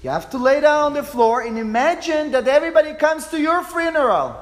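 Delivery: loud, high commanding yell; coach yelling. Retold or imitated. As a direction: bark orders at the group like a drill coach. Coach yelling orders at group.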